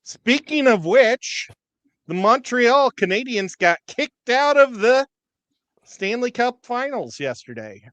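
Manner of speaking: slow, loud, high gloating news; gleeful announcement. Real, not acted. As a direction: savor every word of it. Gleeful hockey elimination news.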